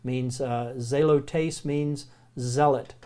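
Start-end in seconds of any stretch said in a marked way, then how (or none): 0.8-1.6 zelotes said slowly, ZAY-loh-tays; slow Greek word. Shown as a demonstration. Teacher to class, sounding zelotes out slowly. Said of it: "Letter is zeta".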